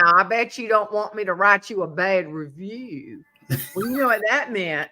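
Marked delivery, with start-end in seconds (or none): 0.0-3.2 imitating a tough smoker making a threat; lightly voiced Southern smoker, menacing; gravelly smoker voice. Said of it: "that gravelly smoker voice".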